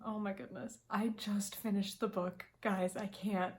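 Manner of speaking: breathy whisper, overcome; real teary whisper; emotional whisper. Real, not acted. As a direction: whisper it, moved to tears. Emotional over the book.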